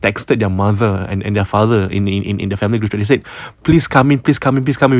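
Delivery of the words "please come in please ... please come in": rapid repeated pleading, slightly raised; mock panicked plea. Scared sisters to their parents, mildly panicked plea.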